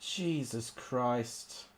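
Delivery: slow, soft, drawn-out groan of words; weary exasperation. Real, not acted. Gamer despairing at his team, slow and soft.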